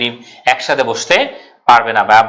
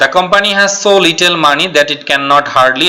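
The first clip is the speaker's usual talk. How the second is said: slow reading of the sentence; 3 semitones higher, much slower than usual. Shown as a demonstration. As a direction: read the test sentence slowly and clearly. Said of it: "এটাকে বলে double negative".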